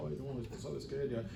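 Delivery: hammed-up timid lament, not real crying; mock whining. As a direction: parody a scared churchgoer making excuses. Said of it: "nos vamos a la casa llorando y diciendo".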